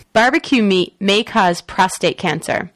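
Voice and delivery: editorial newscaster read; news read. Acted. Reads the next news story.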